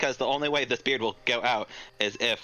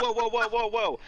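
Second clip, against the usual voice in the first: imp protesting; 9 semitones higher than usual. Acted. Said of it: "It's like".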